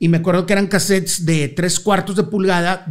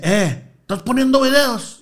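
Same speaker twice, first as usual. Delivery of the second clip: A singer's voice; 6 semitones higher than usual. Retold or imitated. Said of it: "por qué estás haciendo voz de la India Yuridia".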